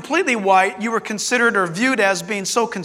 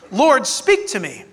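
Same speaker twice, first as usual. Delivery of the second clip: slow, humble plea to God; humble prayer; slower than usual. Shown as a demonstration. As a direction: pray it slowly, like a seeker. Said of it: "We must come to God's word like this".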